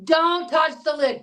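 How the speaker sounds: slow, firm, every word weighted; stern warning. Real, not acted. Host warns listeners firmly, slow and stern. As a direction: lay down the rule slowly.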